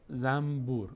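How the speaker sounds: زنبور pronounced zambur, with an M. Shown as a demonstration. Teacher giving the everyday Persian example, زنبور said zambur. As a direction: turn the نون of زنبور into a mim.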